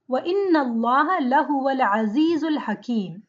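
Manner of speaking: intoned, measured Arabic recitation; Quran recitation. Acted. Teacher recites the verse for students, recitation style. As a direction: chant the verse in flowing recitation.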